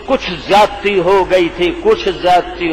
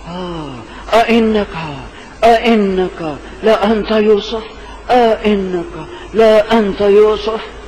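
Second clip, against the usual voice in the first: slow, halting, stunned "آ، انکا، لا انت یوسف"; stammering in disbelief; slower than usual. Retold or imitated. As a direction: stutter it out, afraid to believe. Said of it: "بے ساختہ بھائیوں نے کہا". (ڈرے ہوئے اٹکتے لہجے میں)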